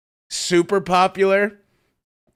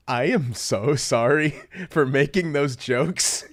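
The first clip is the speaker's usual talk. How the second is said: sincere apology; 3 semitones lower, slower than usual. Retold or imitated. Retold comedian's earnest apology.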